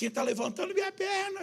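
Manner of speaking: shrill, very high-pitched scream. Retelling how a woman screamed during prayer: imitating a woman screaming. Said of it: "ela gritando".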